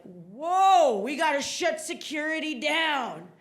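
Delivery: lightly voiced alarmed TSA officer; old white guy. TSA officer finds something in bag, mild alarm. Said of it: "This old white guy that works at T S A".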